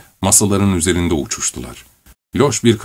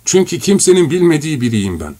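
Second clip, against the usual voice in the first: devilish; 6 semitones higher than usual. A narrator's reading. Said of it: "şeytani bir kahkaha patlattı".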